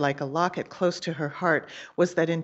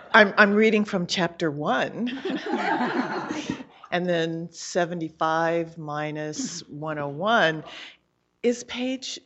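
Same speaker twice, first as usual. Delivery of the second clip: laughing; 3 semitones higher, 6 dB louder than usual. Real, not acted.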